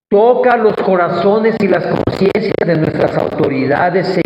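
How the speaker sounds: fervent spoken prayer to God; earnest prayer. Real, not acted. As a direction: plead with the Lord on the people's behalf. Leads the congregation in prayer.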